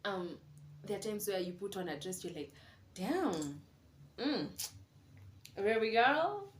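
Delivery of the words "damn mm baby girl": admiring self-hype. Retold or imitated. Hyping herself in the mirror.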